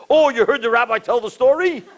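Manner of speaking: high, knowing guard voice; catching on with a grin; amused guard. Retold or imitated. Guard's amused question, high far.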